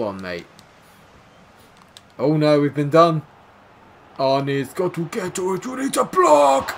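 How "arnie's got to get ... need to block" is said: much higher and louder, slowed urgent yell; frantic shout. Real, not acted. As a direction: bellow at your defender to block. Yelling at defender on screen.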